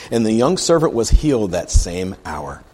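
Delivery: emphatic read-aloud, key words leaned on; scripture reading. Acted. Preacher reads the leper's plea to the congregation, scripture reading. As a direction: read the verse out deliberately.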